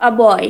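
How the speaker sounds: put-on "a boy" with the article said "ah". Shown as a demonstration. Teacher giving a second example, article said as ah. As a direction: say the "a" in "a boy" as an open ah, not ay. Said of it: "আবার কখনো আ উচ্চারণ করি".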